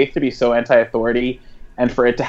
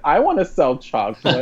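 higher-pitched mock eager quote; Faith; 4 semitones higher than usual. Host imitating Faith wanting to join in, mock pleading. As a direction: lightly play a left-out girl, voice lifted. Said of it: "Faith's like".

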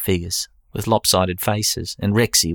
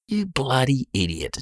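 a chuckling jab at his mate, pitched up; laughing; 5 semitones higher, 3 dB quieter than usual. Acted. Jeff laughing as he calls his mate an idiot. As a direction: laugh it out at your mate's stupidity.

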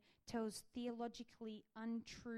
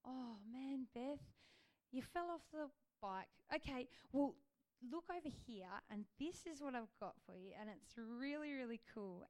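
kind encouraging. Retold or imitated. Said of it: "he's always like".

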